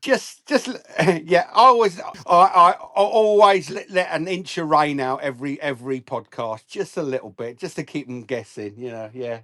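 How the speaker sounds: light Irish accent impression. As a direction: lilt it like an Irishman. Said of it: "French, Irish, impressive".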